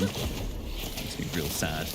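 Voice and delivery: mock sad. Joking about a missing item.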